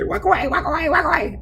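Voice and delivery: childish high-pitched mockery; mocking taunt. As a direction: taunt them in a high mimicking voice. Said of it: "which is what they always like to say".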